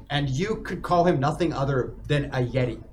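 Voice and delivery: normal talking voice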